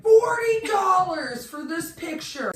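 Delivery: rally the crowd, half laughing; shout. Retold or imitated. Jen shouting to the crowd about the forty dollars, rallying. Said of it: "she turns around and she goes".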